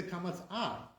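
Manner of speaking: a as an open, lengthened ah; Sephardi kamatz. Shown as a demonstration. Teacher showing the Sephardi vowel, long open a. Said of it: "little bit longer".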